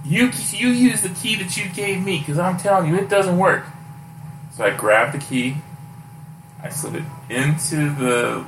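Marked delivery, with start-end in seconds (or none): 0.0-3.7 insistent protest. Retold or imitated. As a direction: push back hard, like a frustrated employee. Jorge insists, raised voice.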